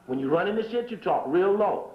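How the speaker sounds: said low. Shown as a demonstration. Showing the crowd how the powerful talk, low. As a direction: let the words sink down low.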